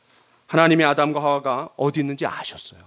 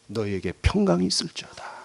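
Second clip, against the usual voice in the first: softer, tender quote of Jesus; mild, quiet reassurance; gentle blessing; 6 dB quieter than usual. Acted. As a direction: bless them softly instead of scolding. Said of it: "예수님이 그렇게 하시지 않고 뭐라 했냐면".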